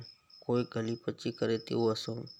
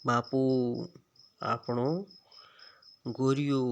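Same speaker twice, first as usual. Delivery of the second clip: excited shout; slower than usual. Acted. Girl shouts to father over found bull, excited. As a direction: call out to father in delight. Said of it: "એકાએક મોટેથી ચીસ પાડી".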